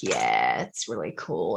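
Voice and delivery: very low, deep, soft, creaky croaking vocal fry. Explaining vocal fry to a listener and demonstrating it: vocal fry. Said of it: "If you've got vocal fry".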